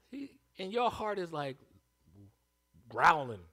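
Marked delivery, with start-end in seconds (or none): 2.9-3.4 growl. Acted. Heart growling in anger.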